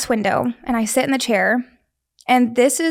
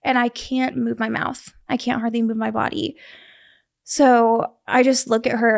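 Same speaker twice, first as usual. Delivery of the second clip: usual speaking voice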